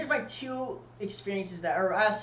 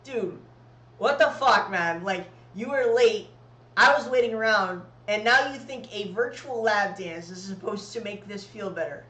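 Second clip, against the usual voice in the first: louder, indignant mock rant; retold angry rant; 5 dB louder than usual. Retelling how he snapped at a late friend, angry and loud. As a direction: vent like you were stood up and played. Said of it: "And I'm pissed".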